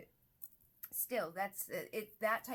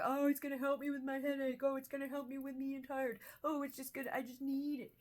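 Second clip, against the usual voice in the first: higher, louder put-on craving voice; mock needy pleading; 5 semitones higher, 3 dB louder than usual. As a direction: make excuses in a raised, needy voice. Voices the firefighter parts pleading.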